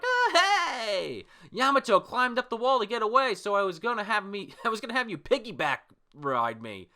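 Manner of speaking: high, loud, excited little-sister voice; hammed-up anime girl; Ulti. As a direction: call out eagerly in a put-on high pitch. Voicing Ulti running up to her brother.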